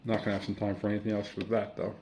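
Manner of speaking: talking while chewing; words round a bite of food; mouth full. Real, not acted. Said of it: "sorry for eating with my mouth full".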